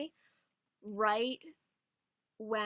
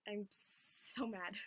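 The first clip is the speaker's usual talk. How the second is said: slow mock mad; 5 dB quieter, much slower than usual. Real, not acted.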